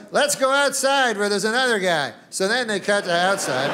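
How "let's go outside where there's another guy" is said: newsman. Retold or imitated. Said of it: "he goes".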